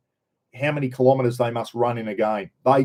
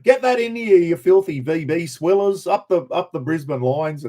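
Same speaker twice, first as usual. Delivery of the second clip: jeering shout; 5 semitones higher than usual. Retold or imitated. Cheering on the Lions at the beer-swilling Vics, rowdy jeering shout. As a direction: crow it at the rival fans like a winning supporter. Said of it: "I went".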